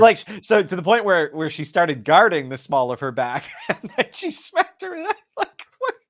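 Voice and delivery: high, squeaky laughter through the words; laughing. Real, not acted. Co-host recounts the small-of-back attack, real laughing. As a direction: start loud, dissolve into helpless high laughing.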